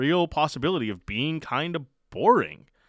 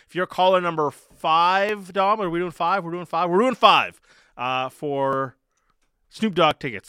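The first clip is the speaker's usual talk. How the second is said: radio contest promo; 2 semitones higher, 3 dB louder than usual. Acted. Host reads ticket contest promo.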